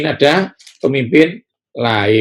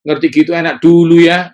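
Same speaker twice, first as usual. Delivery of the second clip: loud, high wistful sigh; mock the nostalgic Israelites; imitating a wistful 'enak dulu ya'; longing for the past; 4 semitones higher, 5 dB louder than usual. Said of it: "Orang Israel bilang apa".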